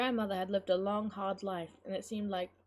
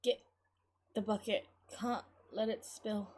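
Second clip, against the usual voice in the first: weakened, halting. Acted. Collapsed grandmother to girl about bucket, weak and halting. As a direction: push out each phrase with effort. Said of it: "pointed a trembling finger at the bucket".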